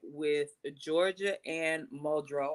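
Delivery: slow, careful name delivery; measured, deliberate pronunciation of the names; said slowly. Real, not acted. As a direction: take the names slowly, one by one. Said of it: "I had to say it slow".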